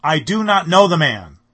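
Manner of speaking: furious sworn shout; cursing, swearing denial. Acted. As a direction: explode with a curse behind it. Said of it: "invoke a curse on himself and to swear".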